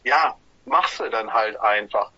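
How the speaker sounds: low, matter-of-fact shrug; resigned acceptance. Retold or imitated. Band member shrugging off a tour challenge, resigned acceptance. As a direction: drop the pitch and just accept it.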